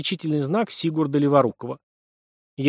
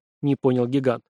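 ordinary delivery, nothing marked

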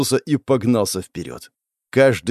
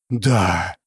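relieved exhale; 3 semitones lower than usual. A narrator's reading. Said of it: "облегчённо выдохнул парень".

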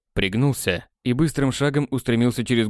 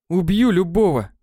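fierce vow; 7 semitones higher, 4 dB louder than usual. Acted. Enraged vow.

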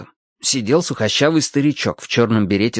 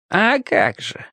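put-on readily agreeing, higher-pitched old man; willing; 9 semitones higher, slower than usual. A narrator's reading. Old cobbler confirms it is a fairy tale, willing. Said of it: "охотно откликнулся старичок".

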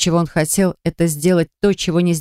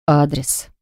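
growled; 3 semitones lower than usual. A narrator's reading. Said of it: "прорычал одно лишь слово".

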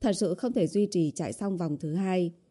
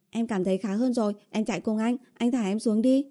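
lightly voiced higher girlfriend; insistent heroine; 4 semitones higher than usual. Girlfriend asks boyfriend to put her down, mildly insistent. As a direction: ask earnestly to be let go.

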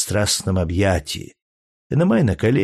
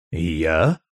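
utter astonishment; 5 semitones lower than usual. A narrator's reading. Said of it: "в невыразимом изумлении".

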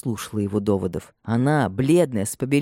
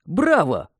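a lightly raised, pleased cheer; exclaiming bravo; 6 semitones higher than usual. A narrator's reading. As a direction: cheer him on. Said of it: "воскликнул лесничий".

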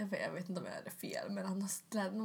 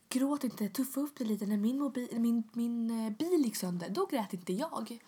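louder retold telling-off; scolding; 3 semitones higher, 5 dB louder, slower than usual. Repair man to crying customer, mock scolding. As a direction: lecture loudly, imitating a dismissive man.

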